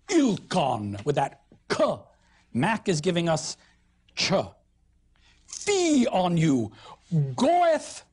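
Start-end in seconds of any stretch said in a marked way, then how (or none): 5.4-8.0 mock Southern accent. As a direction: play the haughty southern noble. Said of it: "That's a Southernism".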